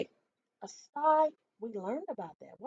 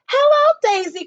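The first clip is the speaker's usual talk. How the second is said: higher, louder hen greeting; clucking hen; 13 semitones higher, 5 dB louder than usual. A narrator's reading. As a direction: cluck it out brightly. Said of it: "clucked Dora".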